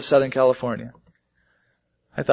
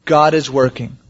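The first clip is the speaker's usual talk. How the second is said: trusting believer quoted; 6 dB louder, slower than usual. Retold or imitated. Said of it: "and say".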